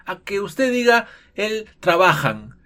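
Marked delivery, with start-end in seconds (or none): 1.3-2.6 "él trabajan" dicho despacio como error; wrong conjugation. Shown as a demonstration. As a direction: say "él trabajan" slowly, showing the mistake. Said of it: "¿Cómo le suena eso?". ("él trabajan" lento, mostrando el error)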